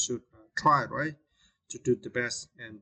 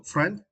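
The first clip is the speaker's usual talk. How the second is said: friend said alone, pitched up; stressed syllable drill; 6 semitones higher than usual. Shown as a demonstration. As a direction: isolate friend, lift it. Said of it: "stress the second syllable".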